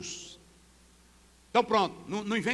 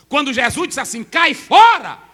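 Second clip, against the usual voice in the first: shouted, much higher and louder; preaching shout; 4 semitones higher, 12 dB louder than usual. Acted. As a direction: thunder it at the congregation.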